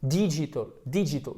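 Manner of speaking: "Digital" twice as DEE-ji-tl; long i error. Shown as a demonstration. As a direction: stretch the first i of "Digital" into ee. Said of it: "à faire un i long".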